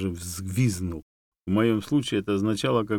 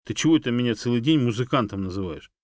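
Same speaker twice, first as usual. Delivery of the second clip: louder offended protest; indignant; 5 semitones higher, 6 dB louder than usual. A narrator's reading. Dog protesting the monkey's nickname, indignant. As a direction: bristle with outrage. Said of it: "возмутился".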